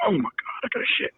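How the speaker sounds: high, strained plea; urgent inner panic; desperate. Retold or imitated. Desperate need for toilet.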